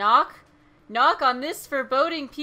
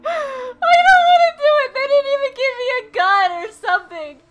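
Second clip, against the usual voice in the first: much higher, louder, teary wail; panicked crying; 7 semitones higher, 8 dB louder than usual. Real, not acted. Scared gamer in horror game.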